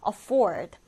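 "afford" with FFORD stressed; short light a, lean on FFORD in "afford"; stress on second syllable. Shown as a demonstration. Teacher models a new word, "afford" stressed on the second syllable. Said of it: "뒤듬절의 강세를 두고".

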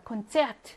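콘체아트 with a short 체; stressed but short 체 in 콘체아트; short stressed vowel. Shown as a demonstration. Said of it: "짧게".

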